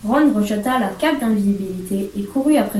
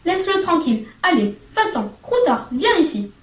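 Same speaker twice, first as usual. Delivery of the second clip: furious shouts; 7 semitones higher than usual. A narrator's reading. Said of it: "les cris furieux qu'il lançait".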